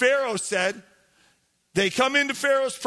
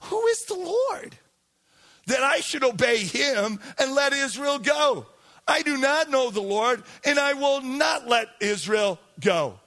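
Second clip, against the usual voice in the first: defiant Pharaoh. Acted. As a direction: play the scornful king throwing the demand back. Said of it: "Pharaoh responds".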